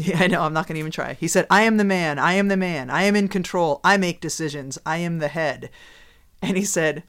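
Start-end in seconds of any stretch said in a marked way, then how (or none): 1.5-5.7 mildly emphatic mock assertiveness, a bit louder; retold boasting. Driver retelling how he told his wife who's boss, assertive. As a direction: declare it like a husband laying down the law.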